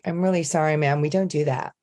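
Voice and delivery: American barista. Retold or imitated. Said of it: "Americans couldn't understand".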